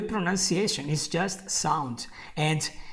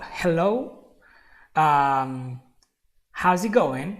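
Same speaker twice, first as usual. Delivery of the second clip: stumbling hello with a filler um in the middle; hesitant greeting; 3 dB louder, slower than usual. Shown as a demonstration. Halting greeting to a new friend, hesitant.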